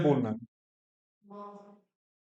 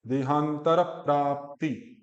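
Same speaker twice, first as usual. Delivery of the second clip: देहांतर प्राप्ति slow and joined; no gap; slower than usual. Shown as a demonstration. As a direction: draw देहांतर straight into प्राप्ति without a break. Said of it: "वो gap नहीं देना होता".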